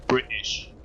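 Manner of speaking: "British" with the T left out; "British" as the British say it, T unpronounced; British-style pronunciation. Shown as a demonstration. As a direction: drop the T in "British". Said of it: "I know they say".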